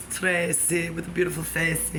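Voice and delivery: lightly attempted British accent. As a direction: try a British man's accent, only roughly. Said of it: "as close as I can get".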